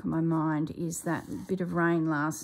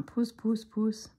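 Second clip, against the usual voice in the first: calling the cat; 5 semitones higher, slower than usual. Retold or imitated.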